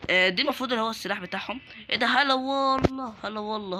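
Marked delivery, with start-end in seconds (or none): 2.1-3.1 long, slow, mocking welcome; drawn-out hala wallah. Taunting an enemy player with a slow drawn-out greeting. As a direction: stretch the greeting out like a teasing host.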